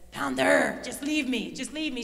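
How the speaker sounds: imitated yell, loudest on the name; mild mock yell. Retelling exhausted teammate yelling at her, mild mock yell. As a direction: yell it lightly, as a retold outburst. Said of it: "She's yelling at me now".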